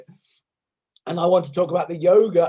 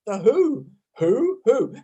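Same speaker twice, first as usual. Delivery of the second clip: stifled who; 5 semitones higher, slower than usual. Shown as a demonstration. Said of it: "the next one we're gonna do is the who".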